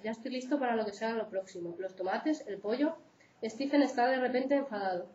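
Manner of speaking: steady read-aloud of a true account; reading a case aloud. Acted. Lecturer reads a real abuse case to students, read-aloud. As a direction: read the book passage to the class, evenly.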